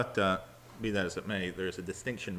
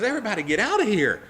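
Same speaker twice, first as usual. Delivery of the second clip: fast, loud higher command; commanding order; 11 semitones higher, 8 dB louder, faster than usual. Acted. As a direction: clear the room now. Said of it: "And he says".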